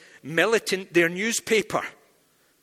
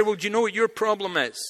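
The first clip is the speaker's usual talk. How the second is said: confrontational challenge; 6 semitones higher, 3 dB louder than usual. Retold or imitated. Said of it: "which isn't really a good way".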